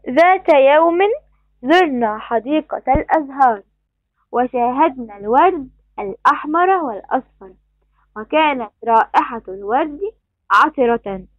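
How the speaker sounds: careful classroom read-aloud in formal Arabic; measured Standard Arabic recitation with full case endings; reading a passage aloud. Acted. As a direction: read the story out to pupils, each phrase set apart.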